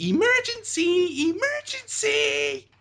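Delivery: very high, slow, cartoonish cry. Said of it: "you still hear him say".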